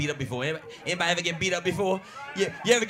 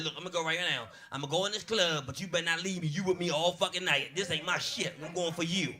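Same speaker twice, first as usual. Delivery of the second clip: hushed plea; 2 semitones lower, 6 dB quieter than usual. Retold or imitated. Nervous pleading with cousin.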